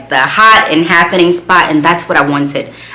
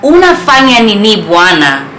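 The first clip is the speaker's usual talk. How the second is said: higher and louder, marvelling out loud at God; amazed exclamation; 4 semitones higher, 4 dB louder than usual. Real, not acted. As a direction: burst out in Swahili, delighted.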